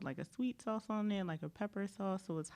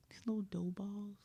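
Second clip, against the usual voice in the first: whispered; 9 dB quieter, faster than usual. Real, not acted. Hushed talk about food.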